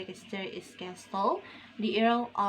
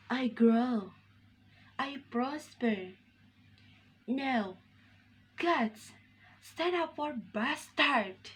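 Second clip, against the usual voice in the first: slightly raised, declaimed closing lines; Edmund soliloquy; 3 semitones higher than usual. Acted. Student as Edmund calls on the gods, declaimed. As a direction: build to a rallying call, with pauses between phrases. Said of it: "I will soliloquy as Edmund".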